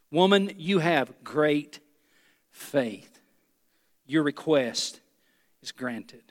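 slow, soft, with weight on "great" and "faith"; great faith stressed. Shown as a demonstration. Preacher to congregation, slow soft emphasis on "great faith". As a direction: lean on "great faith" gently. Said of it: "Underline the words great faith".

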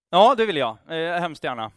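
loud eager yes. Retold or imitated. Climber eagerly answers God's voice, loud. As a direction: jump at the offer.

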